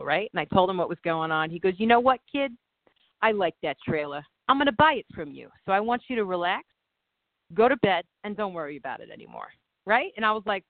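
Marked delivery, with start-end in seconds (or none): 1.8-9.5 put-on Italian accent. The speaker retells Italian buyer calming her, mild Italian accent. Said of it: "That was so much better".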